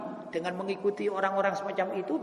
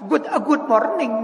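Madurese-style English; 5 dB louder than usual. Shown as a demonstration. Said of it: "apalagi dimadurakan".

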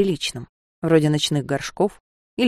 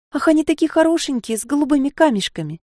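rapid chatter; 9 semitones higher than usual. Acted. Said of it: "затараторила".

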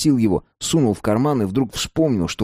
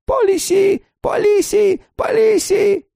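put-on old man's shrill panicked squeal, much higher and louder; panicked squeak; 4 dB louder, slower than usual. A narrator's reading. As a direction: squeal it out in alarm like a frightened old man. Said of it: "зашёлся в тревожном писке".

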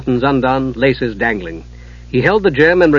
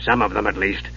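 softer, under the breath; muttered aside; 5 semitones lower, 6 dB quieter than usual. Acted. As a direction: mutter it to yourself. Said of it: "In a muttered aside".

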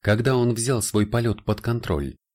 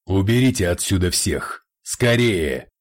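shouting; 3 dB louder than usual. Acted. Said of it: "прокричал маг".

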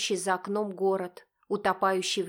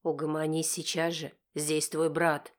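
barked; 4 semitones lower than usual. Acted. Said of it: "рявкает Серёжа".

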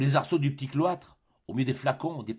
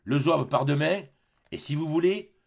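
louder, higher lecturing skipper; captain lectures the fooled Tartarin, louder and higher; sententious captain; 4 semitones higher, 3 dB louder than usual. Acted. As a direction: lay down the lesson like a know-all sailor. Barbassou offers.

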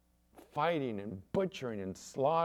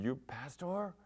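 higher, imitated Mexican accent in broken English; 5 semitones higher, 4 dB quieter than usual. Man from Mexicali reading the card, questioning in accented broken English. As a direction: ask haltingly in a Mexican accent. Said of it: "in his broken English".

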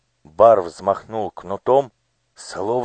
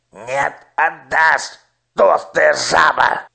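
slow, higher jeering insult; insulting snarl; 8 semitones higher, 3 dB louder, slower than usual. Acted. Minister wrestling the official, jeering insult. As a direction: spit the insult slowly.

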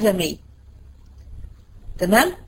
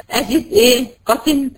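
mock crying; 4 semitones higher than usual. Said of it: "فتبكي يا عم".

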